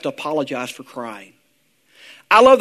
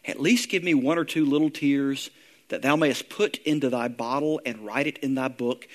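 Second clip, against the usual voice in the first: prayerful reading. Acted. Pastor reading Andrewes' prayer to the congregation, hushed and pleading. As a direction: read it as a humble plea.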